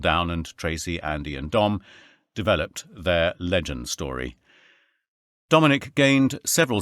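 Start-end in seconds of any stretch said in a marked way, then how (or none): none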